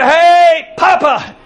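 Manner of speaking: lightly voiced little boy; a hint of an eager grandchild on the phone; grandson's greeting. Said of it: "he called me up and he said".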